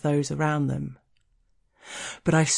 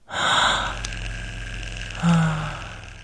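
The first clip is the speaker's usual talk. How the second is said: long sigh. Acted. Sigh closing the story.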